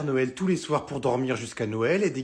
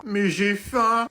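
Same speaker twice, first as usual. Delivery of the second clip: put-on whiny child; 5 semitones higher, 5 dB louder, much slower than usual. Child whining about cake.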